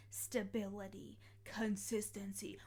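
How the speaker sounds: slow whispered word. Acted. Listing buzzwords, drops to whisper.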